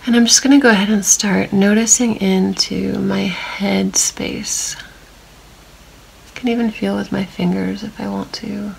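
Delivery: calm meditation voice with long silences; unhurried, even guiding, leaving long pauses to notice; guided body scan. Real, not acted. Meditation guide leading listeners through a body scan, calm and spacious.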